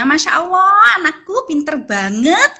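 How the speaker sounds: proud parent cooing praise; praising child. Shown as a demonstration. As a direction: gush over the child's good work. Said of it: "memberikan reward ya".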